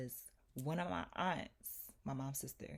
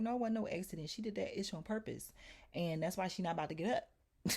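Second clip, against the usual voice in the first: raised pitch, mildly heated insistence; retold indignant contradiction; 5 semitones higher, faster than usual. Retelling her reply to the landlord's accident claim, indignant. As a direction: argue back hotly in a retelling.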